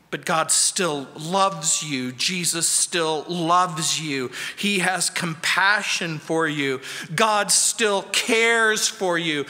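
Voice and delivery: slow, gentle comfort; slow down and reassure them they're loved; tender reassurance. Real, not acted. Pastor comforting his hurting congregation, slow and tender.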